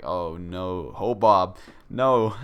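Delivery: loud, groaning cry of dismay; dismayed yell. Retold or imitated. Friends reacting as Hobob farts again, loud dismayed yell. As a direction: call out his name in horror.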